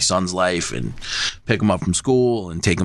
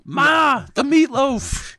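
much higher, slow sing-song call; high mock mom call; much slower than usual. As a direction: call it out like a mother. Mocking call of mother.

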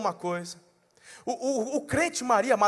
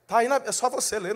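ordinary talk

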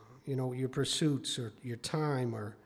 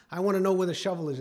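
retold angry yelling; 4 semitones higher, 5 dB louder, faster than usual. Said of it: "he's screaming and yelling at him".

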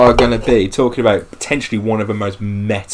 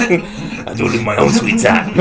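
unearthly voice; 5 semitones higher, 3 dB louder than usual. Acted. Joining the spirit voice bit.

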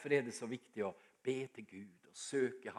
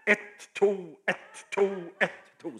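loud, higher barked count; retold gym teacher's shout; 6 semitones higher, 10 dB louder than usual. Pipe-smoking gym teacher counting the beat for pupils, loud shout. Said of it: "og så ropte han".

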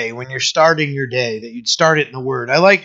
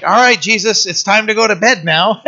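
put-on child's voice; 5 semitones higher than usual. Child voiced in retold story.

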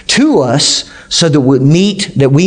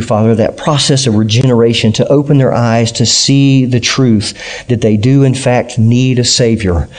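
earnest prayer, slightly lower than the preaching; public prayer; 3 semitones lower than usual. Real, not acted. Pastor praying to God for anyone here without faith, prayerful. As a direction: speak to God in a measured, lowered voice.

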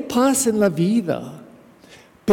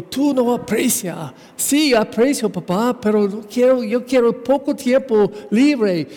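higher, insistent quarrel lines; heated back and forth; 5 semitones higher than usual. Retold or imitated. Son and father arguing about gratitude and free time, heated. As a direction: argue it out, pitch up.

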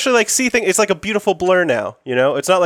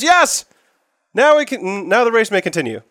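excited announcer; 5 semitones higher than usual. Acted. GM voices cheering announcer.

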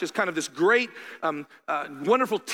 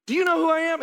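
mock indignant; 10 semitones higher, 5 dB louder, faster than usual. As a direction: Do you know who I am, YOU stressed, much higher and louder. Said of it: "I'm not like".

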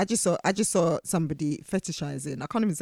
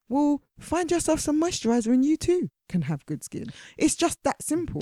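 sarcastic; 8 semitones higher than usual. Acted. Sarcastic advice to fetishizer.

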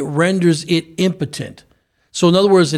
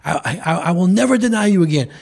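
mild joyful cry; 3 semitones higher, faster than usual. Retold or imitated. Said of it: "he's rejoicing and he's crying".

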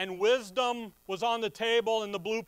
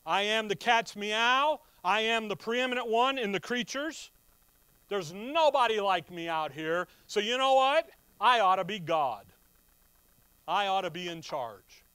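louder, puffed-up boast as Lucifer; boastful Lucifer; 3 semitones higher, 6 dB louder than usual. Retold or imitated. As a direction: strut it like the top dog of creation. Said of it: "He looks around creation and he says".

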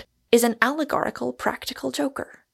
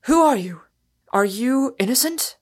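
shouted; 4 semitones higher, 5 dB louder than usual. A narrator's reading. Arthur shouting into the tree.

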